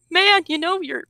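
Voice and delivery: a playful take on Jordan Peterson explaining; Jordan Peterson impression. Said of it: "I imagine Jordan Peterson coming and going".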